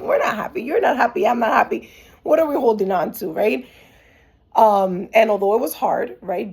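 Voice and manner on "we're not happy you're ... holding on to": higher, rising frustrated plea, mildly acted; retold exasperation. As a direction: lay out the case with mock exasperation. Retold plea to leave relationship.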